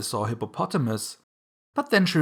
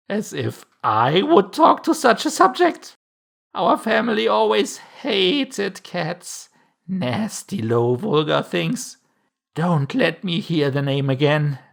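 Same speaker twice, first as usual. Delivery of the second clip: high, loud, put-on mouse voice; indignant mouse; 7 semitones higher, 5 dB louder than usual. A narrator's reading. The mouse rebukes Alice for mentioning cats, indignant. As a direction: scold slowly and haughtily, easing down from high outrage.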